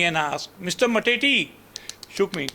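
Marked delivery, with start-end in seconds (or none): 0.6-1.5 calling his name. Retold or imitated. Nurse calling patient awake.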